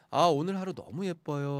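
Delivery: ordinary delivery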